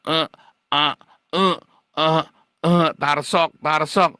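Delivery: loud mock hesitation, stumbling over fillers; flustered stammer. Member who won't show financial reports, imitated in a loud flustered stammer. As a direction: play the caught member fumbling for excuses.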